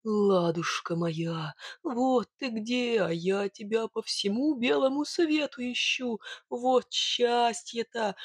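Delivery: slow, drawn-out fond exclamation; lightly voiced bogatyr rejoicing at his sweetheart; rapturous hero. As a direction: savour each word in delight. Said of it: "восторженно восклицая".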